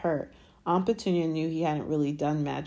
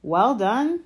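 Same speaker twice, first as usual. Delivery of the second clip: higher, louder sarcastic congratulation; sarcastic, raised-pitch praise; mock praise; 7 semitones higher, 6 dB louder than usual. A narrator's reading. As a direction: pretend to be impressed. Harry mocks Dudley's taunt.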